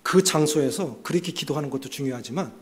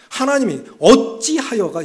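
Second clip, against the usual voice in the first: complaining cry; 5 semitones higher, 6 dB louder, slower than usual. Retold or imitated. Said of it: "이게 이제 원망 불평이에요".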